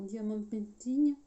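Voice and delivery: "diamond painting" said the English way in a French sentence; English accent. Real, not acted. Crafter naming her kit mid-tutorial, slips into an English accent. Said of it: "désolée pour mon accent, euh, anglais".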